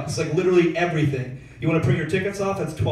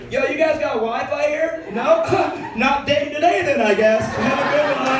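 1 lazy slacker; 10 semitones higher, 4 dB louder than usual. Retold or imitated. Lazy modern guy mocked.

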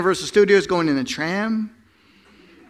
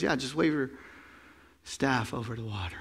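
hushed God voice; 8 semitones lower, 16 dB quieter than usual. Retold or imitated.

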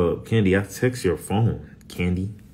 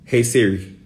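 calling Siri; 4 semitones higher, 5 dB louder than usual. Real, not acted. Calling her phone assistant.

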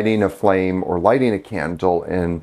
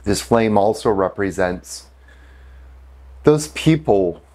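unhurried meditation guide with long pauses; guided meditation. Real, not acted. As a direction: gently lead them inward, leaving space between phrases.

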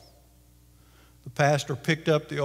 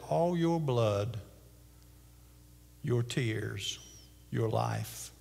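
softer and slow, each item weighed; hushed price; 4 semitones lower, 8 dB quieter, much slower than usual. Acted. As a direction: lay out the price slowly and quietly. Satan names the price.

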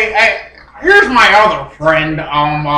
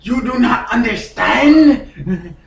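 put-on Cuban accent. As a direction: question them as a Cuban character, accent on. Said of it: "I'm from Cuba".

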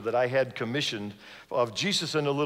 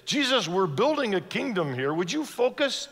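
irritated; 5 semitones higher than usual. Acted. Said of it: "the disciples get a little irritated".

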